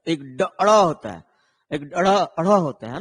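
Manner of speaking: "अड़ा" said with a flapped ड़, tongue flicked back; a flapped "अड़ा" shown next to plain "ड"; retroflex flap ड़. Shown as a demonstration. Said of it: "दो तरह का ड".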